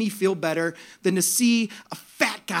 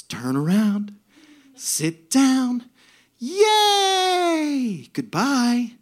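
sweet angel's singsong, lifting higher; angelic, joyful; 5 semitones higher, 5 dB louder, much slower than usual. Retold or imitated. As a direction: chant it like a delighted angel greeting riders. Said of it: "And then my wife goes".

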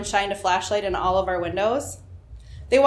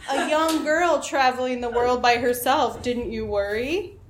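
Keith Morrison; 3 semitones higher than usual. Retold or imitated. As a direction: ask it gently like a TV host probing. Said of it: "while Keith asked them".

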